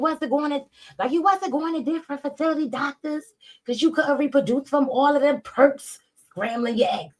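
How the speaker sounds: high, put-on mocking voice reading a tweet; high sarcastic read of a rival's post; mocking changed voice. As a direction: mimic the tweet in a high, silly voice. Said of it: "not just because I changed my voice".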